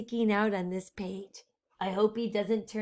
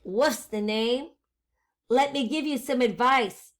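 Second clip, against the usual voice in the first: wolf voice; 4 dB louder than usual. Acted. Wolf introduces himself to the witch.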